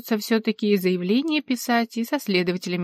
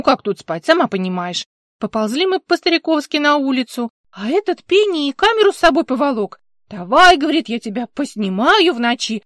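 a bit higher, louder, garrulous; hint of a brassy older actress; lightly voiced brash older woman; 4 semitones higher, 5 dB louder than usual. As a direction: chatter the tale like a feisty old actress. Alla's voice in narration.

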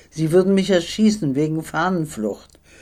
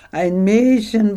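higher, louder and slow, roaring it out; laughing shout; 7 semitones higher, 4 dB louder, slower than usual. Retold or imitated. Officer roaring with laughter at the disguised girl. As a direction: bellow it in amused disbelief. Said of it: "brüllt er".

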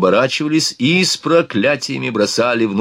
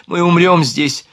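slow, higher-pitched moan; moaning despair; 6 semitones higher, 4 dB louder than usual. A narrator's reading. Louise fears they will die here, moaning. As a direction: wail it slowly in despair. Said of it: "простонала Луиза Фюзиль".

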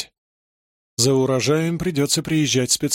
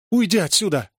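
snapping, higher; angry shout; 5 semitones higher than usual. A narrator's reading. Mother yelling at her little daughter to go away, angry. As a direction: shoo the girl away sharply. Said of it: "закричала на неё несчастная мать".

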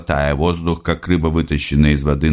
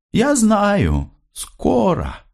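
mother's voice; much slower than usual. Acted. Mother answers Andrey.

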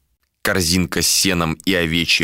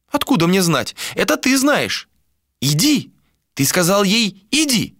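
put-on high old seer's voice; old woman voice; 11 semitones higher than usual. A narrator's reading. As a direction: speak as the blind old crone, pitched up. Old seer voiced by narrator.

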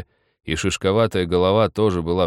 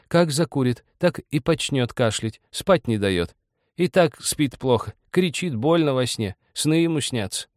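put-on complaining old woman; 7 semitones higher than usual. A narrator's reading. Old woman tells of husband's nights, high lament. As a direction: list grievances in old wife's voice.

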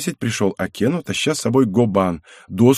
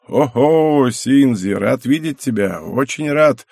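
cordial welcome; 3 semitones higher, slower than usual. Acted. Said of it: "радушно произнёс старик".

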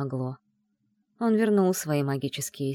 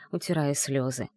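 ordinary delivery

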